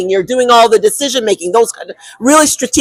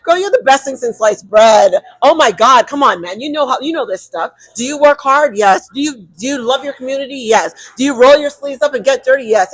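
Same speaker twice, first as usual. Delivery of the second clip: a hint of a sassy best friend; lightly voiced cheering friend; hype friend pep talk; 2 semitones higher than usual. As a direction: pump her up like a girlfriend on the phone. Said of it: "My red zone friend says".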